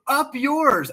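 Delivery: mock an old lady snapping back; a cranky old woman blurting it out of nowhere; hammed-up old lady retort. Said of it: "she just goes".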